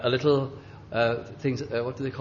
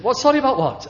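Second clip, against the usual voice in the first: sharp, much higher and louder retort; mock cranky old man snapping; indignant snap; 12 semitones higher, 7 dB louder, faster than usual. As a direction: bark it back at him, offended. Old man snaps back.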